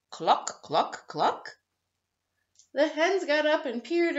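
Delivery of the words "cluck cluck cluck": louder hen clucks in a pig's mouth; pig clucking. Acted. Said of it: "greedily grunted".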